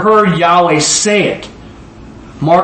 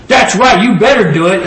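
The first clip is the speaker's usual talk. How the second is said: proud owner; 3 semitones higher, 3 dB louder than usual. Retold or imitated. Voices proud owner cheering the child.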